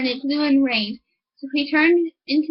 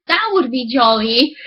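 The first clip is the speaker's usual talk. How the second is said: louder, delighted exclamation; delighted miller; 3 dB louder than usual. Acted. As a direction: exclaim with glee. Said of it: "cried the miller".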